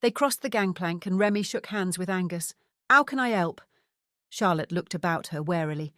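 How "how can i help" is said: put-on higher, louder French-accented greeting; French-accented character voice. A narrator's reading. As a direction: offer help as a Frenchman. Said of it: "replied in a thick French accent".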